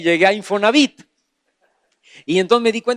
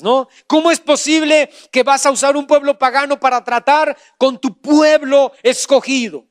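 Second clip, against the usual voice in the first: emphatic pulpit exposition; impassioned sermon delivery, punching key words; forceful preaching; 5 semitones higher, 5 dB louder than usual. Acted. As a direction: preach it out with raised, insistent voice.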